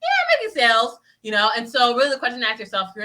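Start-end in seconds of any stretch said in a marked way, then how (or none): 0.0-1.0 high-pitched, half-hearted YEAH; unenthused contrast. Acted. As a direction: squeak out yeah with feigned cheer.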